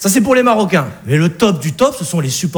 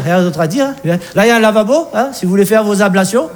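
lightly voiced Alsatian father. Alsatian father sizing up his daughter's Arab fiancé, condescending. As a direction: talk down politely to the fiancé.

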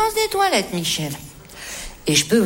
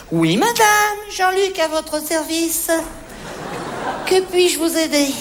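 affected salesman; 2 semitones higher, slower than usual. Acted. Salesman greets a lady customer.

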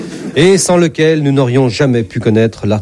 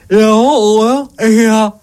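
high, strained anxious questioning; very worried; 10 semitones higher, slower than usual. Acted. God being examined by the doctor, very worried. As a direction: ask it anxiously, voice pushed right up. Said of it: "Et Dieu, très inquiet".

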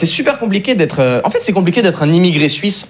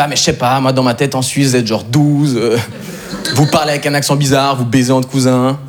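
lower, slowish dopey voice; mild dopey guy; 6 semitones lower than usual. Retold or imitated. French guy joking about the Swiss, a touch low and dopey. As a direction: play the clueless joker a little low. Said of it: "il me fait".

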